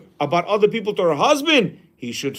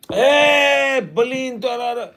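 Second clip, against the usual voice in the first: put-on higher, louder scolding of the child; scolding parent; 6 semitones higher, 3 dB louder, slower than usual. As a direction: scold the kid over the spill. Parent scolding child over spill.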